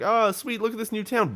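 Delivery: high, loud delighted voice; excited. Pretend. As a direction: sound thrilled by it. Imagined player reacting to a quest reward.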